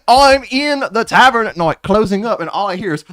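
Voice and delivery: put-on Australian accent. GM tells the tavern tale in an Australian accent. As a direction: lay on the Aussie twang. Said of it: "do I sound Australian".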